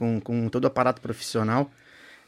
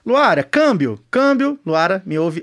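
over walkie talkie; 5 dB louder than usual. Pretend. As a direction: call out like a radio operator. Calling co-host like radio operator.

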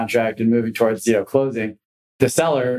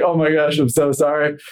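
higher, hurried mock-panicked apology; flustered apology; 4 semitones higher than usual. Attorney apologizing to the managing director, flustered. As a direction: backpedal like someone caught out. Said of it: "the guy started fumbling".

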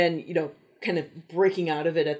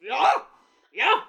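bad German accent; 9 semitones higher, 4 dB louder, slower than usual. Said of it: "the bad, uh, German accent".

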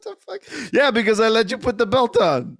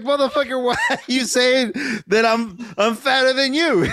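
mock outrage; 3 semitones higher than usual. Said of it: "It's the way you said it".

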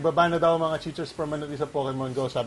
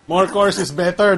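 mock quote; 3 semitones higher, 5 dB louder, slower than usual.

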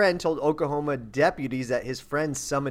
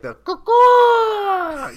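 high, loud, drawn-out call; Bigfoot call; 7 dB louder, much slower than usual. Retold or imitated. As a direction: belt out a wild creature call. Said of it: "you get the Bigfoot call, like".

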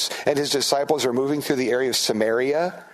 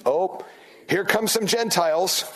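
higher-pitched, mock-wary aside; wary disciples; 5 semitones higher than usual. Disciples spotting Gentiles on the way, mock wary. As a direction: voice the disciples sizing up newcomers. Voices disciples eyeing outsiders.

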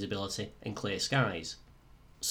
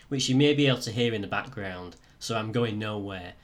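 croaky voice; 4 dB louder than usual. Real, not acted. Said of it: "apologies for the slightly croaky voice".

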